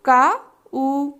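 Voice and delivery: very slow, sounding out each part; teacher sounding out slowly; slow syllable blending. Shown as a demonstration. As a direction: stretch the sounds apart for children. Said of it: "तो हम इसे क्या पढ़ रहे थे".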